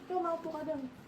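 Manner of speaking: sharp scolding interrogation, pressing each one; angry scolding. Real, not acted. Mother confronting the kids over the video, angry scolding. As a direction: demand answers, jabbing each question.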